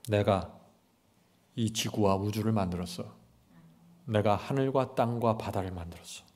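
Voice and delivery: God speaking low then insisting; a hint of God's firm answer; voicing God.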